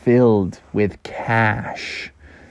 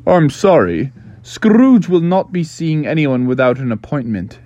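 butler; 2 semitones higher than usual. Acted. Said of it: "the butler said".

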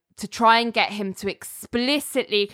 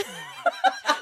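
a high, breathless, wheezy laugh imitation; attempted impression of laugh; 4 dB quieter than usual. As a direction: try to copy his odd laugh and fail. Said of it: "I can't even do an impression of it".

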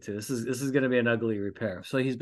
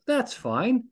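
"That's fine." pitched way up with a rising tune; high mock concession; 11 semitones higher than usual. Shown as a demonstration. Host allowing a wrapper in the door, high rising concession. Listing acceptable trash.

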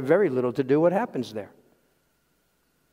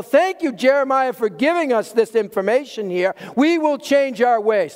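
mock grateful; 5 semitones higher than usual. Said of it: "Did they go".

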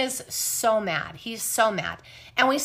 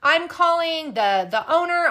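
mock outrage, pitched up; retold worked-up threat; 6 semitones higher, 4 dB louder than usual. Manager threatening to call cops and owner, retold worked-up. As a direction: imitate an irate manager, higher and insistent. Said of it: "He gets super, like".

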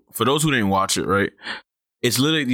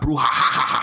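mock villain laugh; slower than usual. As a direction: imitate a big villain laugh mid-sentence. Imitates a villain's booming laugh.

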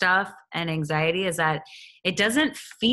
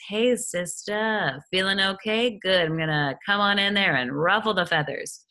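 sly anxiety voice; 3 semitones higher than usual. Pretend. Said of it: "that's how anxiety likes to work".

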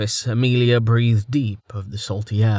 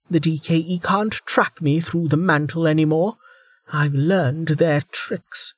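menacing threat; 8 semitones higher than usual. Acted. Velika threatens Amelia.

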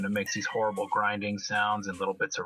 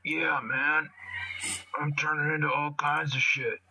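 put-on higher street-kid voice; Spitter's voice; 7 semitones higher than usual. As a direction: hype it up like a proud street kid. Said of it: "But he's like".

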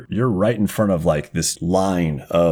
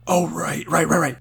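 mocking ganger; 7 semitones higher than usual.

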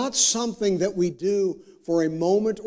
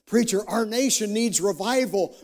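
tag; 7 semitones higher than usual. Acted. Voices congregant's anxious plea to preacher.

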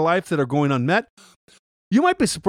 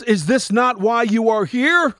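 Maximus line; 4 semitones higher than usual. Retold or imitated. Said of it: "he then says".

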